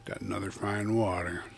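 chewing while talking; mouth full. Real, not acted. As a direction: talk around an almond. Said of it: "I'm still chewing on that almond".

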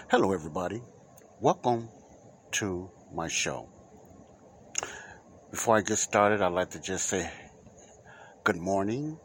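energetic podcast announcer; radio host welcome. Acted. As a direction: welcome the listeners like a show host. Host's big welcome to listeners.

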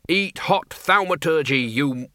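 mild action-hero jeer; battle taunt. Acted. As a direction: relish the attack. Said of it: "the Dean began".

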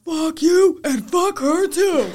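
high, loud, half-laughing imitation of a rude customer; mock angry customer. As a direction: spit it out like the rude guy, laughing. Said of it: "he was so aggressive".

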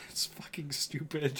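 whispered aside; whispering. Real, not acted. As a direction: hiss it under the breath.

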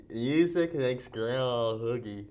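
slow, garbled through a mouthguard; wearing a mouthguard. Real, not acted. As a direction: mumble past a mouthguard. Mouthguard game reading.

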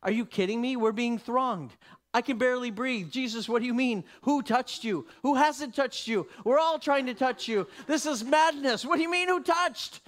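exasperated crowd climbing to a near shout; incredulous disciples. Acted. Disciples to Jesus in the crush, incredulous rising protest. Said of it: "they're like".

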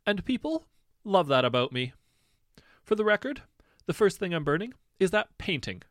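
high, loud flouncing tirade; theatrical rant. Acted. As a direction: rant like a spoiled prince on stage. Prince rants about the painting.

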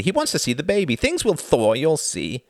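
high, eager optimism; excited. A narrator's reading. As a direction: enthusiastically promise it will work out. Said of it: "said Reginald excitedly".

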